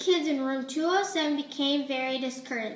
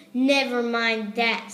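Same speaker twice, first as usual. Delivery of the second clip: slow, stern snap; a stern teacher snapping, slow; snapped; 5 dB louder than usual. Acted. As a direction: cut them off sternly. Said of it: "snapped Miss Swamp".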